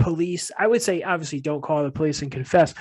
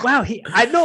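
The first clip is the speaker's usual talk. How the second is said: imitating Lou Ferrigno; 6 semitones higher than usual. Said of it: "talking like that".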